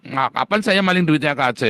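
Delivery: loud, pressing challenge; indignant retort. Retold or imitated. Preacher retelling his reply to Saifuddin, loud and indignant. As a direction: fire the question back, offended. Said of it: "Oh, kamu maling duitnya K C".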